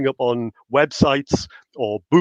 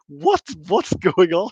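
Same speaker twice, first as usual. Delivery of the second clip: slow, drawn-out disbelief; incredulous, stretching the words; mock bafflement; 3 semitones higher, much slower than usual. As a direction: act out a baffled viewer. Acting out baffled viewer reaction.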